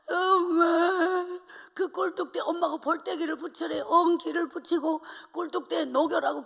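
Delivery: 엄마 목소리로 애타게 당부하듯; mother's urgent plea. Retold or imitated. Mother instructs child during fire. (애타는 엄마의 당부)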